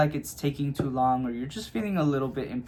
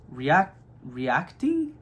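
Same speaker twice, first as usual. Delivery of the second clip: slow careful retry; much slower than usual. Shown as a demonstration. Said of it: "I forgot how to talk".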